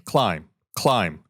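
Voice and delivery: lightly imitating a detached automated alert; understated monotone warning-system callout; matter-of-fact. Host voices the cockpit warning system to his co-host, matter-of-fact. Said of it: "just very matter-of-factly saying".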